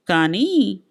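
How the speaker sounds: కానీ stretched, then left hanging; breaking off. A narrator's reading. Wife holding back an objection, breaking off on కానీ. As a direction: hesitate on కానీ and stop unfinished. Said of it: "అంటూ ఆగిపోయింది".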